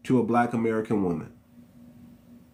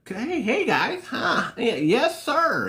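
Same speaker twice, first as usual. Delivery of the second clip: high, prim and overly polite; mock his proper way of talking; 10 semitones higher, slower than usual. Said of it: "he's very proper in his talk".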